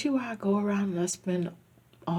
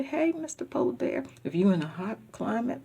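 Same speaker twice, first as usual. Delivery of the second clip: calling the polar bear; 4 semitones higher than usual. Pretend. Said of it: "just drink a bottle of Coca-Cola and say".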